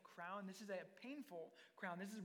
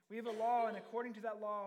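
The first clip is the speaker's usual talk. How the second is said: forceful, much louder retort; loud insistence; 2 semitones higher, 9 dB louder than usual. Acted. The Jews answering Pilate, loud insistent retort. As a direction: hit it hard like an accuser. Crowd argues back at Pilate.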